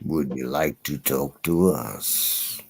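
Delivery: very low, put-on deep voice; deepest voice. Asking a renamed friend to talk, exaggerated deep voice. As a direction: sink far below your normal pitch. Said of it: "with the deepest voice".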